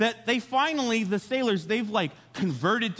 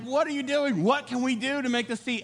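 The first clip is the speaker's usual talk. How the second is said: raised pitch, pressing questions; freaking out; 5 semitones higher than usual. Retold or imitated. Sailors beg Jonah for a way out, mildly panicked. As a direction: ask it in a mild mock panic. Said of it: "they're freaking out".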